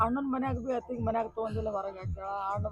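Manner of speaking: wife telling the neighbour how she was thrown out; tearful lament. Acted. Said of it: "ಅಳ್ಬೇಡ, ಅಳ್ಬೇಡ".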